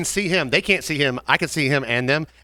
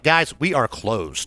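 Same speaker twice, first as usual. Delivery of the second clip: firm and slow; 3 semitones lower, much slower than usual. Retold or imitated. Server firmly closing bar.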